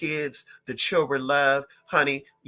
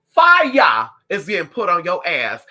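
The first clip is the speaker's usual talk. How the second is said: preachy shout; 8 dB louder, slower than usual. Shown as a demonstration.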